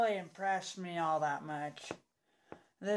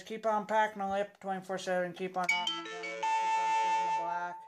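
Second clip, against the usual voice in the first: signature sign-off catchphrase. Acted. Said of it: "Cowboy Dipper says".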